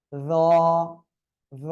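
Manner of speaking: র as a heavy voiced "th" with rounded "aw"; teacher's full, dark র, vowel held; thick heavy sound. Shown as a demonstration. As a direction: model র thickly, tongue tip at the teeth tips. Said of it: "একটু মোটা আওয়াজে হবে".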